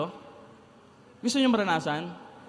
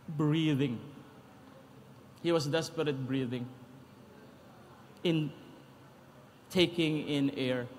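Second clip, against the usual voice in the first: mock labored breathing; 6 semitones lower, 6 dB quieter, slower than usual. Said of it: "he's so desperate".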